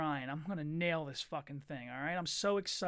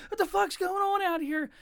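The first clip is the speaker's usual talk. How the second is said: mom yelling; 13 semitones higher, 6 dB louder than usual. Retold or imitated. Mom bursts out at screaming kids.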